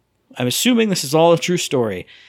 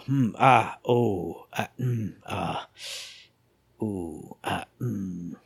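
puzzled murmuring; 6 semitones lower, 7 dB quieter, much slower than usual. Retold or imitated. Puzzling over the third puzzle.

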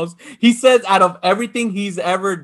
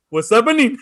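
laughing greeting; 3 semitones higher than usual. Retold or imitated. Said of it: "He goes".

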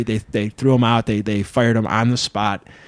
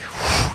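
blown-out whoosh; 3 dB quieter than usual. Retold or imitated. Mimes blood pressure shooting up.

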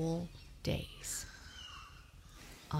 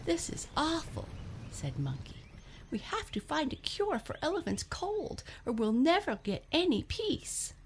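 high Monkey voice; 11 semitones higher than usual. Acted. Monkey's distressed lines.

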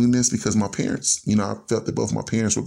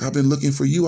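higher, rising on "you"; retold astonishment; 4 semitones higher than usual. Son answering long-lost father on phone, mildly astonished. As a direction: echo it back with mild disbelief.

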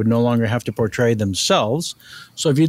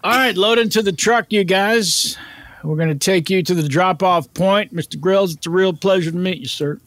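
a slightly higher, hearty crew-host voice; lightly acted higher-pitched show staffer; lightly voiced crew driver; 5 semitones higher than usual. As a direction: welcome the star aboard as the crew escort. Plays the crew member driving the guests.

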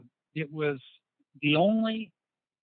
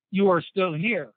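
broken English; 3 semitones higher, 6 dB louder than usual. Retold or imitated. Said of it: "in his broken English".

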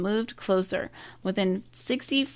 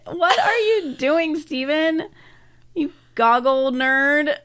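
laughing mock taunt; 7 semitones higher, 6 dB louder, slower than usual. Mocking the man in goggles.

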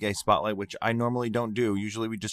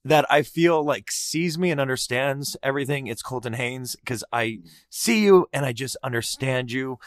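getting emotional. Real, not acted. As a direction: voice catching with real emotion, long pauses. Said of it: "oh my God, I'm getting emotional".

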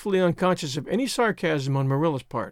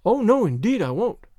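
eager; 3 semitones higher than usual. Acted. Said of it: "said Anne eagerly".

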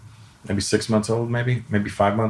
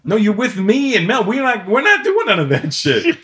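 own voice retold; 13 semitones higher, 4 dB louder than usual. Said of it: "I'm like".

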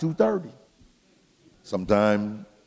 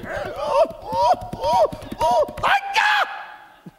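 very high shrieked outburst; piercing mock holy shriek, last word drawn out; imitated church shout; much slower than usual. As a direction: mimic a worshipper overcome by the sermon. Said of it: "And then you hear".

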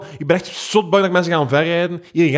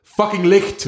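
sharp high call of fucking licht; yelled at cyclists; 7 semitones higher, much slower than usual. Retold or imitated. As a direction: bark it at a passing cyclist. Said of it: "roep ik". (geroepen naar fietsers)

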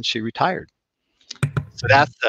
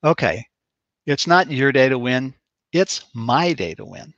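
measured, matter-of-fact self-talk; imitating a firm inner voice; winning inner voice. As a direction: set off each phrase with a pause, leaning on YOUR and MY. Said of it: "the voice said in this tone of voice".

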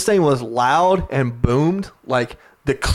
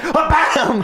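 high hammed-up "bam" while laughing; mock battle cry; 13 semitones higher, 3 dB louder than usual. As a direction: belt it out like a cartoon punch. Retelling his uppercut punch.

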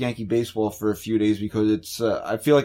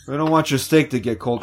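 laughing. Real, not acted. Repeats it while laughing.

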